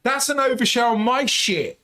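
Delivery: high, loud embarrassed protest; embarrassed outburst. Real, not acted. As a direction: protest loudly, mortified. Friend reveals he calls cops.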